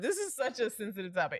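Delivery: words breaking into laughter. Discussing a topic with a fellow speaker, laughing while talking. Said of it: "I'm laughing so much".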